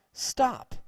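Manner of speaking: loud, high shout; shouted stop. Acted. School guard stopping a running boy, loud shout. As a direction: halt him with one shout.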